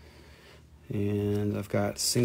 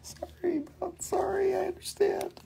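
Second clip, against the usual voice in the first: mock-sympathetic high whisper. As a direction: breathe the sorry like a sheepish secret. Mock apology to the viewer.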